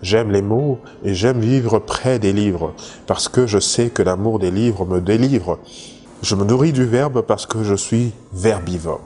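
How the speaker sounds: measured poetry reading with pauses between lines; poem recitation. Acted. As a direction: recite it line by line, lightly declaimed. Reads out a second poem. (récitation de poème, posée, vers par vers)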